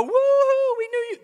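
mock celebrating disciples; mock whoop. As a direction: whoop it up like a cheerleader. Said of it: "They didn't go".

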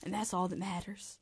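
Impression of a famous singer sliding into a Southern accent; lightly put-on Southern US accent; Southern slip.

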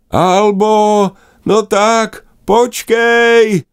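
high, loud calling sister. Acted. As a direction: call after her to wait. Sister chases and calls. (vysoké hlasité volání, ať počká)

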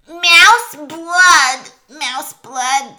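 loud, high rat chant; bloodthirsty rat pack; clamouring rats. A narrator's reading.

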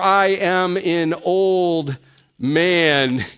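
put-on I AM AN OLD MAN slowly, word by word; emphatic protest. Quoting Zechariah's emphatic protest.

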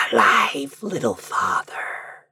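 faint little voice, trailing off slowly. A narrator's reading. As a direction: answer as a tiny far-off creature. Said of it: "a little voice, hardly to be heard".

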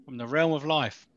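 talking around a mouthful of eggs; chewing while speaking; mouth full. Real, not acted. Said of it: "I'm eating eggs while I'm doing this".

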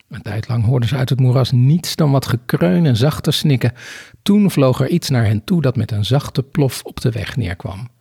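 measured read-aloud storytelling; story narration. A narrator's reading. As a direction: read the scene out with deliberate phrasing. Reads a story passage aloud. (rustig voorlezend vertellen)

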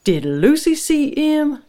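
high, loud, slow questioning; urgent demand. A narrator's reading. Frank questioning his wife about the visitor, urgent. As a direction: demand an answer from your wife.

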